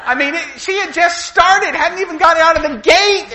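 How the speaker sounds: high, loud, laughing delivery; real laughter in the voice; laughing through words. Real, not acted. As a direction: tell it while cracking up. Laughing while retelling.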